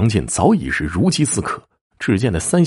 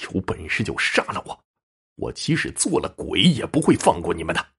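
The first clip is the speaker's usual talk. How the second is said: muted, strained acted cursing; tearful cursing; 3 semitones lower, 5 dB quieter than usual. A narrator's reading. Bound husband curses the attackers, tearful but muted. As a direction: curse them through held-back tears, without volume. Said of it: "哭泣着大骂".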